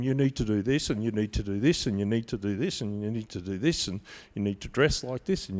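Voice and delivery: fading mock recital of rules; mocking rule list. Listing religious rules mockingly.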